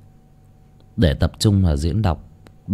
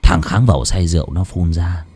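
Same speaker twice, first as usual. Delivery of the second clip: gloating villain; 3 semitones higher, 6 dB louder, slower than usual. Acted. Lão Tuân confessing to dying Thầy Nghiêm, gloating and menacing. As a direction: relish the confession, bursting into loud high outbursts.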